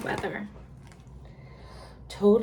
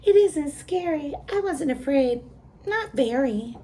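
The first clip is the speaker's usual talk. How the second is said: higher, louder, mock brave goat; 6 semitones higher, 4 dB louder than usual. A narrator's reading. The goat insists it's not scared, mock brave. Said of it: "said the goat".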